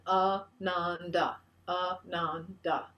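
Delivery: Ananda stretched, each of its three syllables held long; slow, drawn-out Ananda. Shown as a demonstration. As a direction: draw Ananda out slowly for the group to copy. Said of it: "Three syllables again".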